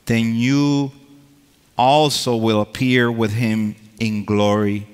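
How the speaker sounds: emphatic, proclaiming Bible reading; scripture reading. Acted. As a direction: read the verses out like preaching. Reads scripture from Colossians.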